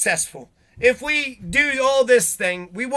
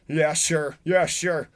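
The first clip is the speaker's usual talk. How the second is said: indifferent shrug; 4 semitones lower, slower than usual. Retold or imitated. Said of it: "shrugged his shoulders and was just like".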